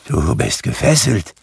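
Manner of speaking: a touch of fearful trembling. A narrator's reading. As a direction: say it timidly to the ghost. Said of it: "sagte Scrooge zitternd". (leicht zitternd)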